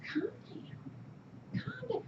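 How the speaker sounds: high whispery patronising calm down; high, soft, mocking calm-down voice; mock friend calming. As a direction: imitate an annoying friend soothing you. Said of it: "they keep going".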